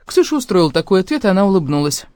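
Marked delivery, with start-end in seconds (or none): none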